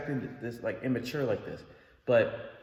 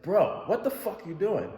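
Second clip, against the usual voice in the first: higher, louder, slow exasperated yell; retold angry yell; 9 semitones higher, 4 dB louder, slower than usual. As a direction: shout at him for swerving into the other lane. Yelling at reckless driver.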